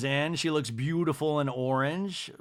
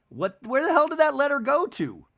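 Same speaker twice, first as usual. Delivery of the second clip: mock exasperation; 11 semitones higher, 3 dB louder than usual. Acts out Shep's exasperated question.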